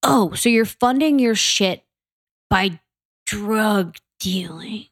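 slow, drawn-out sarcasm; mock realization. Confronting bloggers about where money comes from, sarcastic. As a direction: stretch the last words out in pointed disbelief.

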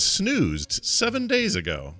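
drawn-out reading. Pretend. Reading app notice slowly.

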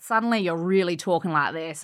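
imitating an exaggerated Australian accent; Aussie accent. Mark teasing her in America, mock Aussie accent. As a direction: lean hard into the Aussie vowels. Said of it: "I lean into the Aussie accent".

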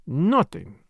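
ordinary delivery

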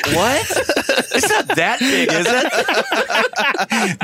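high-pitched, incredulous and laughing; amused, high mock disbelief; mock self-conscious reply. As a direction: act out a rattled batter. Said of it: "And I was like".

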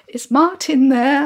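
high, slow, hesitant request; mock timid girl on the phone; nervous caller. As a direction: ask shyly, drawing it out. Acting nervous phone call to crush.

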